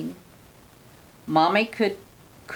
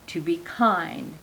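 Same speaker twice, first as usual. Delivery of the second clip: soft slow whisper; hushed, gentle whisper; 3 semitones lower, 5 dB quieter than usual. Acted. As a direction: breathe the words to be kind. Elf's gentle parting advice.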